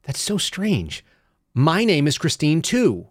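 high, drawn-out feigned astonishment; dad's mock amazement. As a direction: act out a dad joke, slowly marvelling. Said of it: "And he'll go".

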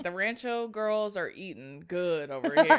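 a giddy, hammed-up envious squeal; laughing. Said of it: "I was like".

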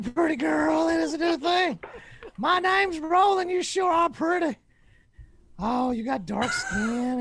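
strut through it like a cocky heel; Roland wrestling promo. Acted. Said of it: "I would like Roland to cut a promo".

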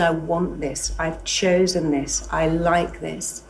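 quiet, slow, certain self-talk; a slow, settled "I've chosen this"; calm affirmation. Shown as a demonstration. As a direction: say it softly, like you mean it. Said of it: "you say".

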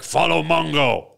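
lightly voiced caveman command; a hint of a brute leading the way; caveman talk. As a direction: caveman Mongo giving orders. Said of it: "he still talks like this".

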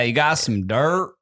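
slow southern truck voice; playful, drawn-out southern accent; Mater. Retold or imitated. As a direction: stretch DIRT in a southern twang. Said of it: "we did that voice a lot".

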